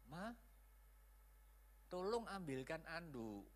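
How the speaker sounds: soft, polite request to a wife; softly spoken, kindly call for a favour; nice tone. Shown as a demonstration. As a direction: ask gently and unhurriedly. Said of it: "Nah, baik kan?".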